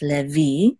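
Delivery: "Levi" stressed on the final vee; stress on last syllable. Shown as a demonstration. Teacher demonstrating Hebrew name, stress on last syllable. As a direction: say "Levi" as le-VEE, weight at the end. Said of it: "accent is on the last syllable".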